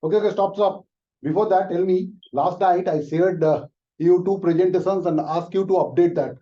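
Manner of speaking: high, loud, impatient boss cutting him off. Acted. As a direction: shut him down and demand the work, loudly. Boss cuts off leave request.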